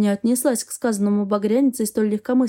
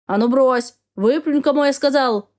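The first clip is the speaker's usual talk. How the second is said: mock yell; 2 semitones higher, 4 dB louder than usual. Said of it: "завопил Яр".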